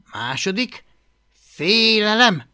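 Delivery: high, emphatic list item; reading aloud. A narrator's reading. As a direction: read out the point from notes, drawing it out. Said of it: "olvasta hangosan".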